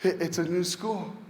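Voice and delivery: softly voiced imitation of a comforting mother; tender, hushed coaxing; gentle reassurance. Mother reassuring her son at drop-off.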